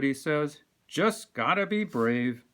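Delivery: animated picture-book narration; reading to children. A narrator's reading. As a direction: read it like storytime for kids.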